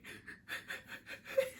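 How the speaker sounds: soft, voiceless mock sobbing; imitated ugly cry. Mimicking Kat crying with the door open, mock sobbing. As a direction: imitate ugly crying in breathy little bursts. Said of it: "Kat is ugly crying".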